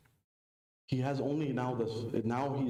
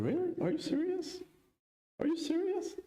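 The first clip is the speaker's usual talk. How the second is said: incredulous. Retold or imitated. Incredulous reply to son.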